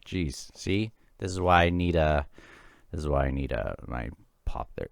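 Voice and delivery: talking through hiccups; hiccuping between words. Real, not acted. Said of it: "Oh, I'm hiccuping now".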